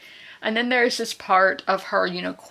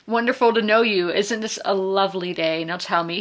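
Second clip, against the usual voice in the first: put-on Charleston accent. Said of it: "Charleston accents".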